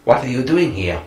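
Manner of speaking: high, put-on woman's voice, hammed up; mock high female voice. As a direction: squeak it out like a mocking imitation of her. Acted scene from the film.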